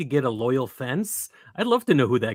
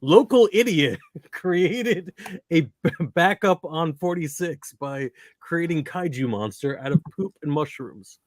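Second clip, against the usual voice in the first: lightly voiced evening-news report; a hint of slow newscaster delivery; mock news headline; 3 semitones higher than usual. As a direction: read it out slowly like a local news item. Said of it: "the evening news where, like".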